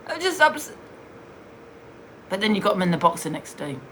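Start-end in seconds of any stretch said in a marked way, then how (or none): 0.1-0.8 high, whiny mock-upset voice, much higher; mocking fake crying. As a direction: imitate her fake tears with scorn. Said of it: "Pretending to cry".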